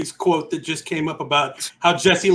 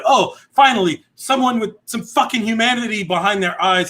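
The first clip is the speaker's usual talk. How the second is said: relieved and excited, opening with a raised oh; excited relief; 4 semitones higher than usual. Retold or imitated. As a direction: retell it as a delighted outburst. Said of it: "I was so excited".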